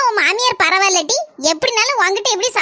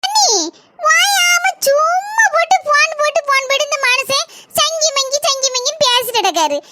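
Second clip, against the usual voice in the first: whiny crying complaint; 3 semitones higher than usual. Acted. Wife complaining about her husband to sister-in-law, tearful whine. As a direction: cry it out, half-complaining.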